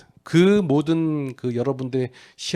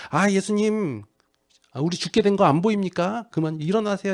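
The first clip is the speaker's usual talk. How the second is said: higher-pitched pleading, lightly acted disciples; 다급한 제자들; 8 semitones higher than usual. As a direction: wake him urgently, higher voice. Acts out panicking disciples waking Jesus. (다급하게 애원하는 제자들 흉내)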